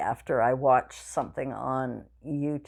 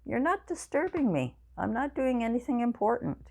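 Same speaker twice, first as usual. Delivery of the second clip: reassuring Mom in a much higher voice; high-pitched, mild reassurance; retold reassurance; 9 semitones higher than usual. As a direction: retell it pitched up, soothing an apologetic parent. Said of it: "I always have to reassure her".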